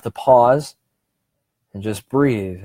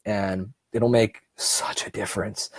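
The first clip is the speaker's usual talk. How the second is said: whisper; 7 dB quieter than usual. Real, not acted. Whispered aside.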